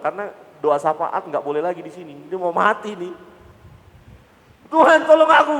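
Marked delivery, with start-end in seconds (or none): 4.7-5.5 high, loud panicked plea; desperate cry for help. Acted. Sinking Peter crying out to the Lord, loud and panicked. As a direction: scream it like you're sinking.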